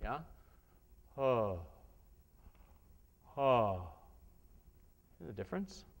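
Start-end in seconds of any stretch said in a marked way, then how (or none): 1.2-1.6 closed throat oh. Shown as a demonstration. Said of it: "I won't do anything except open up the tunnel". 3.4-3.9 open throat oh. Shown as a demonstration. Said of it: "I won't do anything except open up the tunnel".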